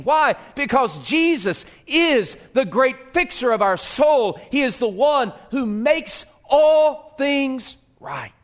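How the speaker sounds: building to a loud high preaching shout; rising preaching shout. Real, not acted. Preacher lifting the congregation with a shout.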